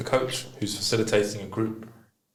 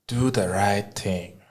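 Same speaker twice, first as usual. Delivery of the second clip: put-on African accent; much slower than usual. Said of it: "in his African accent".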